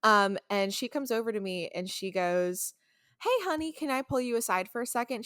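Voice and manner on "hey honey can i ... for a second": chipper customer. Retold or imitated. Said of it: "She's, like, very chipper".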